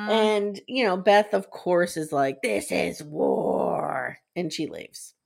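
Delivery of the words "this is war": very slow, drawn-out menace; hammed-up dramatic vow; mock-ominous declaration. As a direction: stretch every word like a threat. Acting out Beth's declaration of war.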